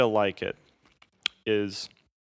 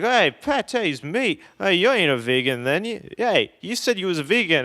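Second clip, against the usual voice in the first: high-pitched mock Aussie; Australian accent; 7 semitones higher, 4 dB louder than usual. Drunk Australian travelers challenging the vegan, in a mock Australian accent. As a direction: imitate accusing Australians, pitched up. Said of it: "what I think Australians talk like".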